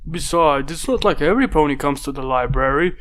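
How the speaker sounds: a hint of a boyish little dragon, chatty; lightly voiced young dragon. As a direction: muse aloud as a small helper. Spike character voice in story.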